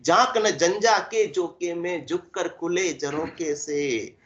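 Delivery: measured, rhythmic poem recital; verse recitation. Acted. Preacher reciting a cautionary verse to a woman, verse recitation. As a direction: recite it as verse, drawing out the last line.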